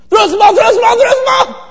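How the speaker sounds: very high loud imitated call; high mock yell of a fan in the outfield; calling for the ball. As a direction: beg for the ball from the stands.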